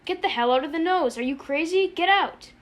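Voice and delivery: appalled outburst building to a shout; amazed screaming. A narrator's reading. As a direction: yell at him in disbelief. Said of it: "he screamed at Arfie in tortured amazement".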